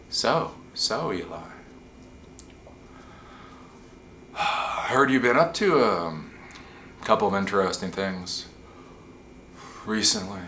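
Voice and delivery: put-on slow, measured old-guy questioning; long pauses between soft, unhurried phrases; slow talk. Old white guy sounding out Eli, slowly with long pauses. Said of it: "they'll just start talking s-, slow".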